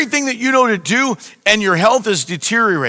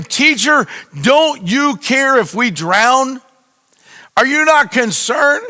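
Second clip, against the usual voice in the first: higher, pleading, rising to a shout; desperate cry; 5 semitones higher, slower than usual. Retold or imitated. Disciples waking Jesus in the storm, frantic pleading cry. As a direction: retell the disciples begging in panic. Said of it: "crying out to him".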